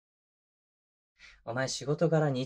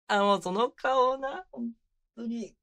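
much higher, slow, overwhelmed by cuteness; flustered delight; 10 semitones higher, slower than usual. Acted. Boyfriend overwhelmed by his partner's cute face, flustered squeal.

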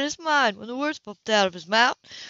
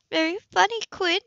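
dry; 10 semitones higher than usual. A narrator's reading. Anna teased back.

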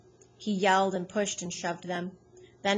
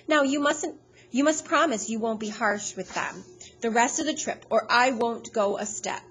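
pleading; 4 semitones higher, 4 dB louder than usual. Acted. Mercedes pleads with Hal.

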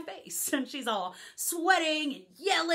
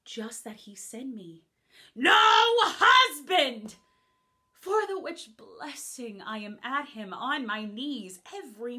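playful mocking stage speech; lively comic verse; witty Beatrice monologue; 3 dB louder than usual. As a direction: tease the idea of a husband.

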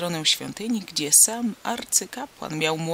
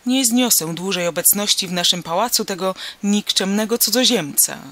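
angry; 5 dB louder than usual. Acted. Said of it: "rzekła gniewnie Piruza".

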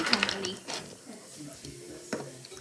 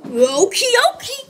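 high bouncy okie dokie; cheery; 8 semitones higher, 5 dB louder than usual. Pretend. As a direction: chirp it out happily. Cheery toy character reply.

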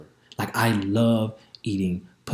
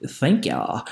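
drawled thank y'all; 3 dB quieter than usual. Retold or imitated. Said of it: "I didn't say it like that".

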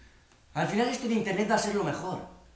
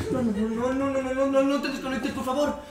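higher, panicked begging; desperate pleading; 7 semitones higher, 3 dB louder than usual. Acted. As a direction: beg them not to leave. Begging partner not to disconnect.

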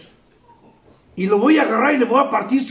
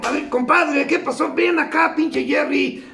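higher-pitched, eager retold greeting; hailing a friend; 5 semitones higher than usual. Buddies meeting after the bar beating, hailing a friend. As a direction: hail your compadre across the street.

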